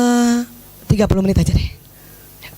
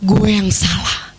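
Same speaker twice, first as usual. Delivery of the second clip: slow self-blame; 8 semitones lower, slower than usual. Retold or imitated. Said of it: "kita akan merasa".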